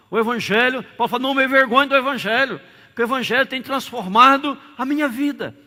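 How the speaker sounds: high, loud proclaiming; fervent preacher proclaiming change; preaching at full force. Acted. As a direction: drive the point home to the church. Preaching that the Gospel transforms.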